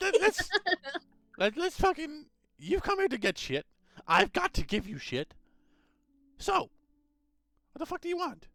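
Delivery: very high, shrill, loud, yelling gnome voice. Voicing an old gnome who screams at the adventurers: screaming gnome. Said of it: "scream at you".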